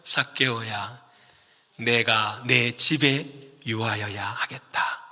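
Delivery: Jesus speaking. Retold or imitated. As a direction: speak as Jesus calling him down, slowly. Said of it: "딱 한마디 하시죠".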